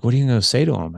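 retold giddy excitement. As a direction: imitate someone all giddy and eager to hear. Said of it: "all giddy".

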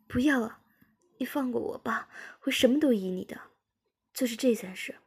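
acted worried plea; anxious pleading. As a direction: beg to be spared, voice lifted. Frightened character begs to be spared.

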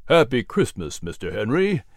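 friendly greeting at an easy pitch; warm smiling reply. Acted. Gilliman answers his old friend Patrick, warm and unexcited. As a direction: return the greeting with a smile. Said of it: "Gilliman replied with a warm smile".

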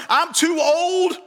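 put-on a priest whining he is too old; drawn-out excuse. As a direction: stretch it out like a tired old man. Zacharias excuse, slow.

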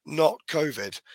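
hoarse from a cold; croaky, cold-roughened voice. Real, not acted. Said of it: "but I sound like it".

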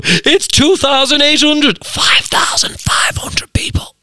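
slow pretend whisper; whispered listener. Imagined listener whispering the venue capacity. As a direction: whisper it like a know-it-all listener. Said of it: "Someone's probably listening to this right now going".

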